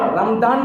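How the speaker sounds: رمضان with a hard D for the ض; D sound in رمضان. Shown as a demonstration. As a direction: say رمضان as "ramdaan", with a plain D. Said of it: "رمضان بھی نہیں".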